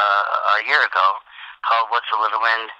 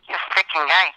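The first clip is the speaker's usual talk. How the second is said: higher, laughing tough-guy line; mock heckler; 8 semitones higher than usual. Comic reliving his tennis heckle, mock tough. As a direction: throw the heckle out with a grin.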